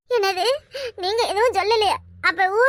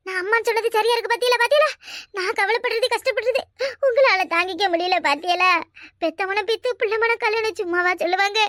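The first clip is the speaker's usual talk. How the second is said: mild tearful pathos; put-on crying. Woman moved by sister-in-law's concern, lightly feigned crying. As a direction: lament with a touch of fake tears. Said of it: "எதுக்கு இப்படி அழுவுற?".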